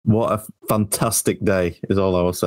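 raspy, worn-out lost voice; hoarse voice. Real, not acted. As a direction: talk with a hoarse voice. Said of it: "Have you lost your voice".

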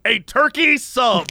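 slow, emphatic mock order; pointedly deliberate. Difficult customer orders again from employee, pointedly deliberate. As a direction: spell out the order with exaggerated slowness.

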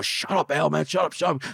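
urgent hushing. Retold or imitated. Cousin pulling on his arm during the threat, retold urgent hushing.

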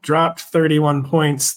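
slow, mocking quote of his words. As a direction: drag it out as a sarcastic quote.

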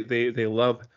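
talking with something in mouth; mouth full. Real, not acted. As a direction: speak around something in the mouth. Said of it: "sorry, I got something in my mouth".

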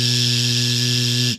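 long buzzing zzz; voiced buzz. Shown as a demonstration. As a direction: buzz it, feel the vibration. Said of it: "from a sh to a".

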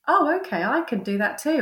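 high, bright-eyed sudden realisation; light mock eureka, pitched well up; a woman spotting she can do it too; inner voice realising. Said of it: "you think".

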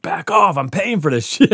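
retold indignation with a laugh in it; mock territorial. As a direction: shoo the kids off, half joking. Acts out shooing watching kids away.

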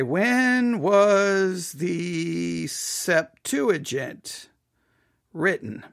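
very slow, each word spaced out for the search; slow query dictation. Shown as a demonstration. Typing the date question into a search, slow and careful. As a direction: spell it out slowly, like talking to a phone. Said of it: "let's just look that up really quick".

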